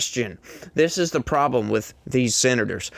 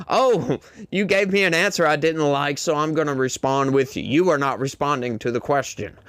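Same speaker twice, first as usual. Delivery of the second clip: mocking. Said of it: "mocking senators' reply".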